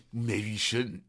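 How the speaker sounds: a touch of meanness, cold and curt; mean. Acted. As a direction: put her down lightly. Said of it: "He gets all mean".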